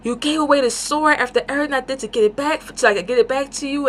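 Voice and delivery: fast, high-pitched mock reproach; retold disappointed scolding. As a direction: imitate an exasperated telling-off. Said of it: "Zed's so disappointed in him".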